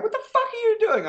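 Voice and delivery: high-pitched shocked yell; alien outburst. Retold or imitated. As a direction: shriek it like baffled aliens watching. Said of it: "those aliens were sitting there going".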